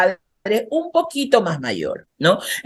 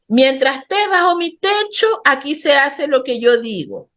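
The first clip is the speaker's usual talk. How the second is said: higher, mock stern laying down the law; strict parent; 5 semitones higher than usual. Parent telling teen house rules, mock stern. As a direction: bark it like a bossy parent, half-played.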